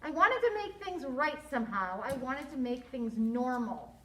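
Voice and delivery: expressive storybook narration with lively dialogue; story read-aloud. A narrator's reading. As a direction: read it to children, acting each line.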